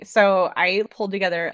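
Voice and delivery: normal talking voice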